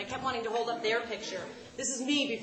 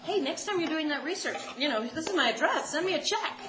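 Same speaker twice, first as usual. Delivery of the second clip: eager mock pitch; 4 semitones higher than usual.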